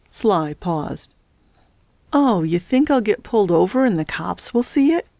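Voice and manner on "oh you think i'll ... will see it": mildly feigned innocent question, lightly voiced; false innocence. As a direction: play dumb, a touch of mock innocence. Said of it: "he said with false innocence".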